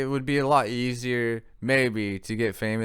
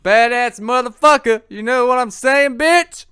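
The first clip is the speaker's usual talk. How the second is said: mock gangster voice; 13 semitones higher, 13 dB louder than usual. Mock tough-guy swagger.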